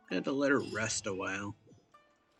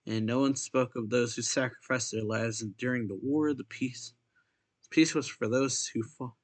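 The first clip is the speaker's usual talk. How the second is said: measured, lightly lifted reading voice; story read-aloud; 3 semitones higher, 5 dB louder than usual. Acted. Player reading a game character's diary to viewers, read-aloud voice. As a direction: read the written entry out clearly.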